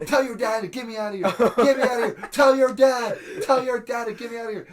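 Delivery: very loud, high repeated yelling; re-enacted screaming. Acting out his sleep demands to tentmate, re-enacted screaming. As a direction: holler it as if trapped.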